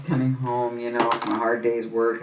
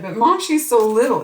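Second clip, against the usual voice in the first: a higher, louder whiny daughter; lightly voiced worried daughter; daughter's protest; 10 semitones higher, 6 dB louder than usual. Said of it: "She's like".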